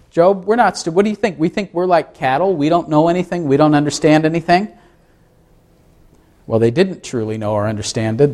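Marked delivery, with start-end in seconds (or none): 0.1-4.7 indignant friends. Acted. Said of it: "Say what?".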